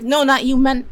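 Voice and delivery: loud, high hurried backpedal; flustered correction. Retold or imitated. Jinta hastily correcting himself to his friends, loud and flustered. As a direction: catch yourself mid-name, loud and high.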